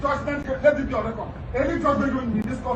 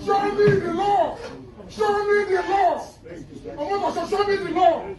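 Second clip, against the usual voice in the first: shouting; 5 semitones higher than usual. Real, not acted. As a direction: yell it at the bench. Defendant shouting in court.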